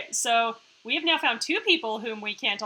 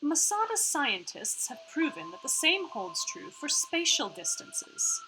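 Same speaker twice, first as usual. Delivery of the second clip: put-on half-Australian AI accent; 3 semitones higher than usual. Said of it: "sorry about her accent right now".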